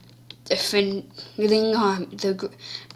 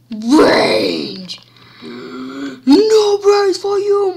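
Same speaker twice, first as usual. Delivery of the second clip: zombie voice; 5 semitones higher, 5 dB louder, much slower than usual. Pretend. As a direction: wail it like a zombie.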